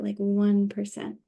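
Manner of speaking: unhurried meditation guide with long pauses; lightly hushed yoga nidra guidance; guided meditation. Acted. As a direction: gently lead them into rest, leaving space between phrases. Leads rest meditation.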